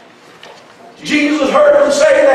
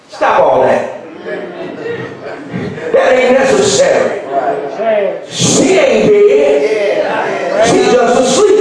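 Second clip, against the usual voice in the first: calm Jesus. Retold or imitated. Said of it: "Jesus says".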